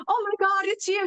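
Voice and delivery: retold amazed exclamation, pitched high; high, mock-astonished outburst. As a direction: imitate a friend's shocked recognition. Friend's astonished reaction to voicemail.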